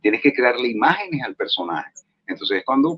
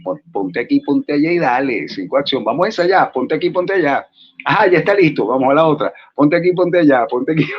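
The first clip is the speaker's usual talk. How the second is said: rushed director. Retold or imitated. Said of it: "mocking a rushed Venezuelan director".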